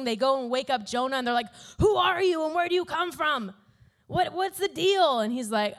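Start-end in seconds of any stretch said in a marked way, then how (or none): 1.8-5.2 higher-pitched, urgent demand for answers; lightly acted panicked interrogation; mock alarmed questioning. Sailors waking up Jonah in the storm, mock alarm.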